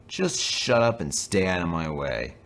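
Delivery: slow, annoyed order; grumpy, slow put-down; slow irritated snap. Acted. James snaps at trucks.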